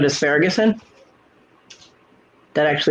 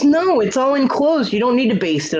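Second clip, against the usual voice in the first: mimicking her smug reply; 8 semitones higher than usual. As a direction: pitch it way up and draw it out like a mock. Mocking her reply in retelling.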